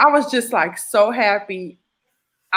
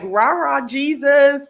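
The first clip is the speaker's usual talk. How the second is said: higher, bouncy chant-like cheer; mock cheerleading; 5 semitones higher, slower than usual. Patient recalling her eager faith, cheerleader zeal. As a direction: cheer it like a fan, lightly self-mocking. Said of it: "I was all like".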